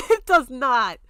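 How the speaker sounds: a laugh, then a loud, slow, emphatic denial; laughing dismissal. Real, not acted. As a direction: laugh it off, then hammer it home.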